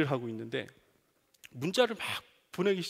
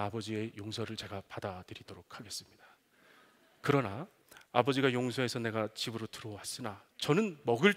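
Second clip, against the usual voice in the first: lower, softer, formal and meek; humble apologizing son; 7 semitones lower, 4 dB quieter than usual. Pretend. Imagined son refusing dinner, low and humble. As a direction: refuse the meal with mock humility. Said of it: "그러면".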